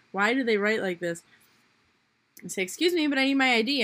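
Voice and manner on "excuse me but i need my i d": louder and fast, pushing back; raised voice. Retold or imitated. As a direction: insist firmly, voice raised. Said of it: "I'm raising my voice at this point".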